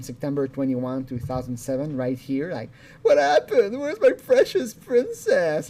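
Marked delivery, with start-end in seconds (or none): 3.0-5.7 higher, louder syrupy creep voice; creepy pervert voice. Retold or imitated. Mocking the caller as a creepy pervert, hammed-up. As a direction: coo it like a creepy predator. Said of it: "like a fucking pervert".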